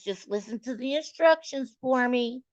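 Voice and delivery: a hint of a tea-serving country grandma; old country lady. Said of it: "she sound like one of them old country white ladies".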